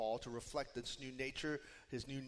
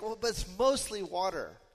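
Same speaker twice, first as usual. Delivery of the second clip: mock protest, lifted higher and louder; mock objection; 5 semitones higher, 5 dB louder than usual. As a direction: play someone lightly objecting to a warning. Voicing a listener's foolish objection.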